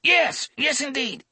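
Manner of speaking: put-on high, pleading, panicked old man; frightened old man. A narrator's reading. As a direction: beg him to stop, in pain. Arm twisted, pleading in pain.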